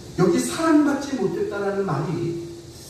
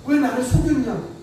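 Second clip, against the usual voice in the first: indignant protest; 5 semitones higher than usual. Retold or imitated. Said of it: "외삼촌에게 가서 따졌겠죠".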